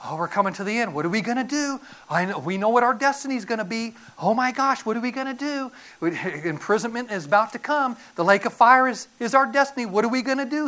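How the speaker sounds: mildly acted panic, rising as it goes; frantic demons. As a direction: fret aloud like doomed demons. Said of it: "getting more and more frantic".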